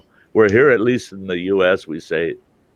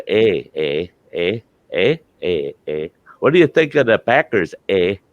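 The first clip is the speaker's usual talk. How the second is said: Yooper accent imitation. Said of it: "we call 'em Yoopers".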